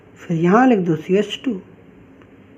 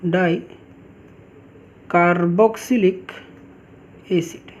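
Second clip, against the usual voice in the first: slow dictation; 3 semitones lower, slower than usual. Shown as a demonstration. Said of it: "teacher dictates the IUPAC name".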